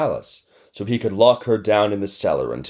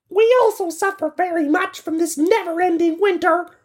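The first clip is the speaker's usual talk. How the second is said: very high, cheerful, cheering animal voices chorus. Narrating a story, voicing the animals as they join the girl, cheering. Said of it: "the animals cheered".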